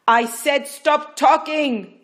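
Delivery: loud, high, slow and fierce; vehement order. Acted. Midwife silencing Rachel, vehement. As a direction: slam the words down. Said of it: "Yima's vehemence".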